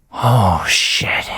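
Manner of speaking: loud startled curse; sudden alarm. Acted. Lens notices Protea's wounds, startled curse. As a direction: realise she is hurt.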